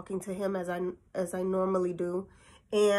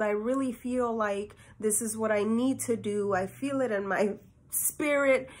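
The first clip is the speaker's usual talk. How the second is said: earnest prayer. Retold or imitated. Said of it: "I'm praying".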